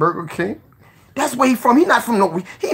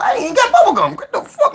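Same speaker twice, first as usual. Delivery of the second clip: laughing; 4 dB louder than usual. Real, not acted. Laughing at himself.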